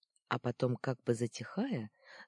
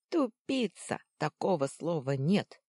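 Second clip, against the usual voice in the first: scornful retort; 3 semitones higher, 5 dB louder than usual. Acted. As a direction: snap at the dimwit. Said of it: "возразил второй голос".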